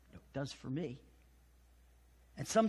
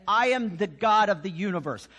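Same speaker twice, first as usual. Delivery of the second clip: louder, proclaiming "I am"; God proclaiming to the universe, louder and solemn; 3 semitones higher, 6 dB louder than usual. Retold or imitated. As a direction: boom it out like God declaring himself. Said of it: "God speaks about himself as saying".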